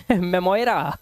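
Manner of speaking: मेमोयरा read letter by letter as "me-mo-ye-ra"; a slow, questioning misreading of मेमोयरा with oy; मेमोयरा with oy and an added final a; wrong reading. Shown as a demonstration. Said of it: "क्या पढ़ोगे इसको?".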